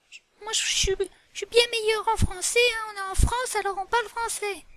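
a lightly voiced whiny Peppa; sulky pupil. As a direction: pretend pupil grumbling, mild. Peppa sulks at teacher.

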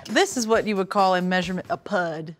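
lightly voiced Russian woman; measured Russian-accented explanation; a hint of stern Russian instructor; Russian character.

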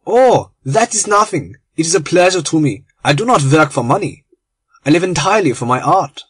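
lightly voiced German, proud and a touch grand; an artist above money, mildly proud; proud German conspirator. German refusing payment from Lord Arthur, mildly proud.

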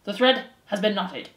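loud public proclamation; shouted. A narrator's reading. Threadmaster announcing to the mice, shouting. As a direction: announce it loudly, strongest on the first words. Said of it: "turned, and shouted".

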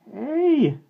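sudden squeal, high and loud; cracking voice. A narrator's reading. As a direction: yelp with a breaking voice. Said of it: "Denny's voice cracked again".

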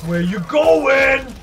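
slow mocking taunt. Real, not acted. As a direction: drag out the taunt. Taunting fleeing opponent.

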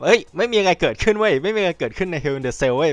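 put-on voice brushing it all off; mock dismissive company voice. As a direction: play the company pretending nothing happened. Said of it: "มันเหมือนพยายามจะบอกว่าแบบ". (เสียงล้อเลียนทำเป็นไม่มีอะไร)

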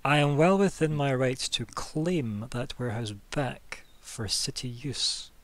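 slow, firm rebuke; a touch of a stern official putting a foot down; stern reproach. Acted. The official silencing Adair, slow and firmly stern. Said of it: "puts her finger up to stop you talking".

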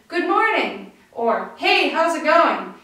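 polite hello to someone you don't know; stranger greeting. Shown as a demonstration. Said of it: "very different than how we talk to a stranger".

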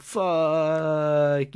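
loud, high, long-held expletive; dismayed drawn-out curse. Retold or imitated. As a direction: let the curse wail out in dismay. Cursing at being taken away.

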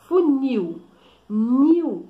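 "funil" with NIL punched high and loud; stress on last syllable. Shown as a demonstration. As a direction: stress the end of "funil", then isolate "nil" loudly. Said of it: "a sílaba tônica é o quê?".

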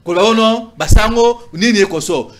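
ordinary talk, nothing marked

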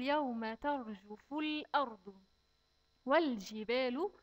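slow, measured tajweed chant; measured recitation of the verse; slow Quran recitation. Shown as a demonstration. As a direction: recite it carefully for the children.

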